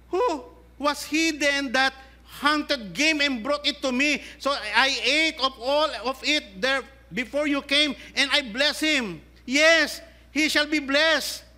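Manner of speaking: put-on an old man shaken by what he has done; trembling Isaac.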